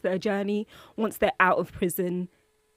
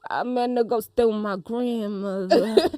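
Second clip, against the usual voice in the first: Julius. Retold or imitated. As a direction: lightly imitate him, taking your time. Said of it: "he's like".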